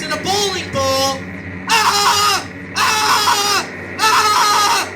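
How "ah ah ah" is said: loud hammed-up ah shouts; mock crowd yell. Mock cheering after punchline.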